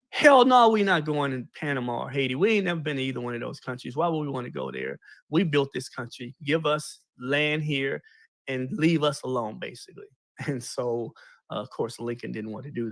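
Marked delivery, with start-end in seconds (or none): 0.1-9.6 retold defiance. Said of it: "Frederick Douglass went off".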